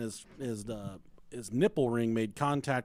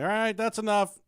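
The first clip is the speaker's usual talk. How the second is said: stern warning; 8 semitones higher, 5 dB louder than usual. Retold or imitated. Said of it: "And I'm like".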